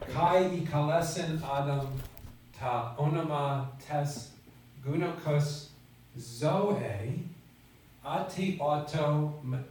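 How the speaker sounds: slow Greek with "zoe" and "zotan" stressed; emphasized Greek reading. Shown as a demonstration. Teacher reads the Greek verse, stressing "zoe" and "zotan" slowly. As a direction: lean on "zoe" and "zotan", unhurried. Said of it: "I'm gonna try to emphasize words the same way".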